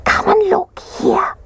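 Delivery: put-on high, slow baby-bear whisper. A narrator's reading. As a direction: whisper it in a tiny cub voice. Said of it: "he whispered".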